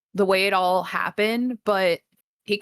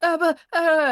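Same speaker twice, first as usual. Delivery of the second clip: high panicky yell; yelling at people from behind a pillar; mock panicked yelling; 9 semitones higher, 4 dB louder, faster than usual. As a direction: coward calling for weapons. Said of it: "yelling at people".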